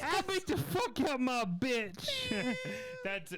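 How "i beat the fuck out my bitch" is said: put-on high-pitched caricatured Black American accent. Comic playing an Irishman, in a Black American accent. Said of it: "that could be a black guy being any race".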